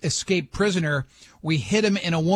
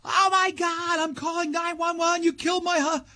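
high-pitched mock panicked scream; retold scream; 11 semitones higher than usual. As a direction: imitate the terrified wife, pitched way up. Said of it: "She screams".

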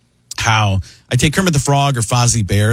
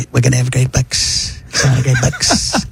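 quiet Trump. Retold or imitated. Comic telling his interviewers, slow quiet Trump. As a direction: play Trump hushed and unhurried. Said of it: "I do quiet Trump".

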